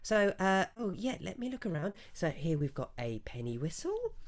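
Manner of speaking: the theatrical stallkeeper shows off her wares; shopkeeper voice. Acted. Branderi shows her wares, high and theatrical.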